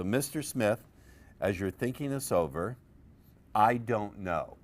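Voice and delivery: "I don't know" slowed right down and leaned on; stress on I don't know. Shown as a demonstration. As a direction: drag out "I don't know" to mark it. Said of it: "Underline the words".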